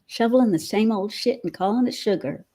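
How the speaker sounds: practising a Southern US twang; attempted Southern accent. Shown as a demonstration. Host working on her accent with that expression, attempted Southern accent. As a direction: have an amateur go at a Southern accent. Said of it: "try and work on my accent".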